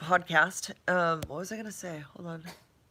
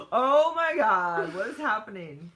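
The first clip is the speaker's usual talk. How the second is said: surprised; 4 semitones higher, 3 dB louder, slower than usual. Real, not acted. Sees face mask filter.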